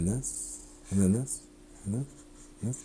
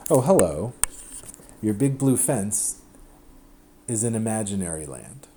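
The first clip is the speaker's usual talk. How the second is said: Professor McDaniel excitement. Retold or imitated. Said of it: "my best Professor McDaniel impression ... really excited".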